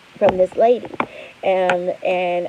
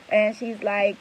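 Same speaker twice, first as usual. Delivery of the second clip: ordinary talk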